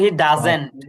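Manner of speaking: he doesn't said slowly and loudly, with a clear z in doesn't; pronunciation demo. Shown as a demonstration. Teacher models he doesn't for the student, slow and clear. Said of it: "উচ্চারণটা হবে".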